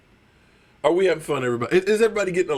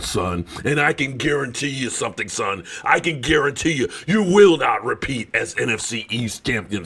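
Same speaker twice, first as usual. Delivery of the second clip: mock war declaration; 4 semitones lower than usual. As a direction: call out a rival fan like a wrestling promo. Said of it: "especially tell Philly five hundred".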